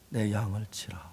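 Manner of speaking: soft, low whisper; tender whispered charge; whispered command. Acted. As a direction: breathe it gently like a blessing. Jesus commissioning Peter.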